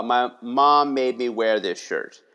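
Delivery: put-on slow, mumbled kid's complaint; a frustrated third grader grumbling about his shirt; glum kid. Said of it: "And he said".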